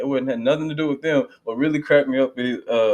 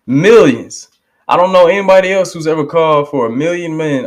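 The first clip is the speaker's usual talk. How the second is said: louder and higher, rising to a shout; fired-up preaching; 4 semitones higher, 5 dB louder than usual. Real, not acted. Praising the minister's million-man march, loud fervent preaching. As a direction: preach it out with mounting fervor.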